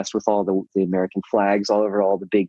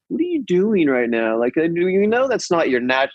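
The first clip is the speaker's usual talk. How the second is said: imitating kids; 6 semitones higher than usual. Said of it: "looking at me like".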